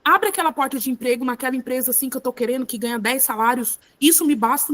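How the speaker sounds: hurried mock petition; lightly acted, fast demanding prayer; wrong kind of prayer. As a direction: rattle off a wish list to God. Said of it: "Eu não preciso falar assim".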